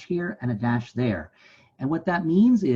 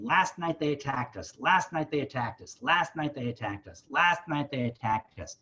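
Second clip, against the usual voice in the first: steady insistent beat; drumbeat repetition. Retold or imitated. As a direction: stress "Last night" every line, falling ends. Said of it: "he's building this thing".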